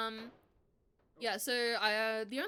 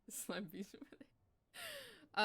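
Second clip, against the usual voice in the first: mock creature voice; 6 semitones higher, 4 dB quieter, much slower than usual. Teasing a chat viewer.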